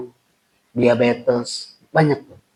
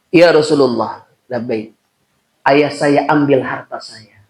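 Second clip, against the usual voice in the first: put-on a young man's louder complaint to the Prophet; complaining son; 5 dB louder, slower than usual. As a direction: slowly lay out his grievance.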